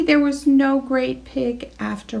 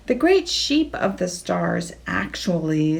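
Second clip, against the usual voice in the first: frowning; 3 semitones lower than usual. Acted.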